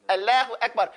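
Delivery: quick "Allahu Akbar" with a thin front "laah"; offhand mock "Allahu Akbar", vowel too flat; mocked wrong lam. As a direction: imitate a faulty, light-l "Allahu Akbar". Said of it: "you sound crazy".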